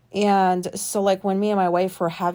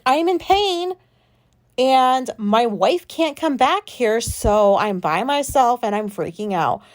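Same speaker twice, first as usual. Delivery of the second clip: higher, drawn-out distressed protest; retold raised voice; 4 semitones higher, 3 dB louder than usual. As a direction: re-enact pleading through pain and panic. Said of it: "Don't raise your voice at me".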